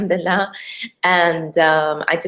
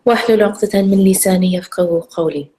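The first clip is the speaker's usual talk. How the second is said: quick murmured Quran recitation; much faster than usual. Acted. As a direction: recite rapidly, half under breath. Recites Fatiha and dua.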